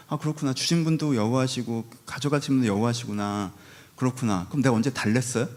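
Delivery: sulky muttered grumble. Retold or imitated. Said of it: "이런 스타일이야".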